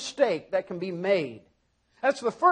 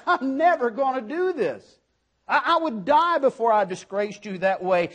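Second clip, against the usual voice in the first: laughing Peter quote; 2 semitones higher than usual. Retold or imitated. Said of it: "He meant what he said".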